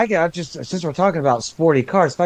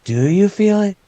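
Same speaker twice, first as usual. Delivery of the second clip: customer service voice; 3 semitones higher than usual. Pretend. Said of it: "get out my customer service voice".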